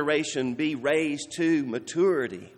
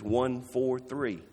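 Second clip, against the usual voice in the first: slow deliberate numbers; 3 semitones lower, 5 dB quieter, slower than usual. Shown as a demonstration. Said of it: "name these numbers".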